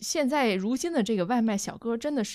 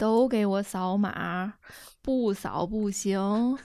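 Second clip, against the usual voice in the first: languid, slack, drawling Tianjin dialect. Asked by another speaker to imitate it, lazy drawling Tianjin dialect. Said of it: "懒了吧唧、慵懒的那种天津话".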